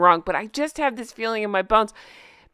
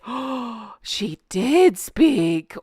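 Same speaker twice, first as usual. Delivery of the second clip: mock grand entrance; much slower than usual. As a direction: drag it out like a diva making her entrance. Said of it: "be like".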